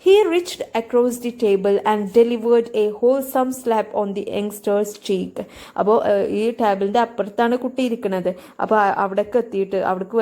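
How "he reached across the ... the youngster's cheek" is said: slow, careful reading of the passage; slow reading aloud. Shown as a demonstration. Teacher reading the story slowly to students. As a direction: read it out slowly for the class.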